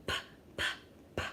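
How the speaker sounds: "p" as an isolated puff, three times; letter sound demo. Shown as a demonstration. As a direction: pop each "p" separately, with pauses. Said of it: "pumpkin starts with a".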